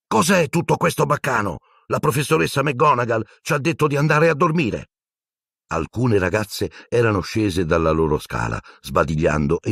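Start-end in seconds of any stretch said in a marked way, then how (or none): 0.1-4.9 put-on annoyed girl. Girls complain.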